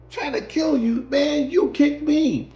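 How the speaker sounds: high, loud, slow disbelief; indignant retort. Retold or imitated. Rider shouting back at the driver, outraged. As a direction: throw it back at him.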